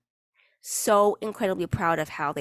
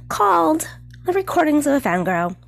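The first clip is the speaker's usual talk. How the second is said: loud, high, drawn-out podcast welcome; slow, overblown sarcastic fanfare; sarcastic grand intro; 5 semitones higher, 7 dB louder, slower than usual. Acted. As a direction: announce it with mock grandeur. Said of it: "Hashtag, like, sarcasm".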